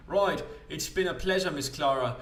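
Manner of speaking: slightly lifted voice, courteously wrapping up; lightly acted polite farewell. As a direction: excuse yourself politely in character. Character takes a polite leave.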